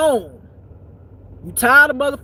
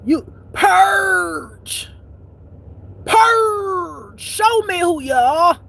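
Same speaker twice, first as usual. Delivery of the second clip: shouted purge; 6 semitones higher, much slower than usual. Real, not acted. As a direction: yell it out, pitched way up. Urging the listener to purge.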